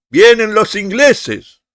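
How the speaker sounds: high, loud, slow mock alarm cry; shouted warning. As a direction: call out a drawn-out warning as an example. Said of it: "Si A grita". (grito de aviso fingido, agudo y alargado)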